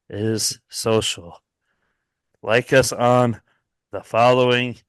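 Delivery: a hint of a stadium announcer; impression of Mason. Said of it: "my impersonation of Mason".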